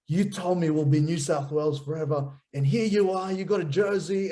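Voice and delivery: mildly hammed-up hurt accusation; upset child's accusation. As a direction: retell a kid's wounded protest, pitch climbing. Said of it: "he was upset".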